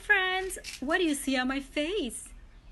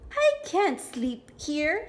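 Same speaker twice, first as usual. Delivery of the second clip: ladybug voice; 5 semitones higher, 4 dB louder, slower than usual. Acted. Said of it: "said the lazy ladybug".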